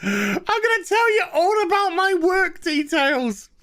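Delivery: lightly voiced bragging coworker; mock boastful voice. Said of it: "So she's like".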